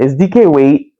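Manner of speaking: stuffy nose, breathing through the mouth; blocked nose. Real, not acted. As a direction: talk with a blocked nose from a cold. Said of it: "I can't breathe through my nose".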